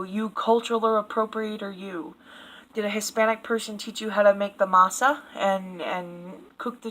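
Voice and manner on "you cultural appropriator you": muttered mock scolding, trailing off; mock accusation. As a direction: sneer it under your breath. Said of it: "don't ever make a taco".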